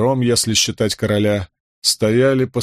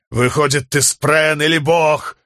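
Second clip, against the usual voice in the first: high, insistent questioning; demanding call; 6 semitones higher, 4 dB louder than usual. A narrator's reading. Man presses the storm god, high demanding call. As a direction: push the question upward, rising in pitch.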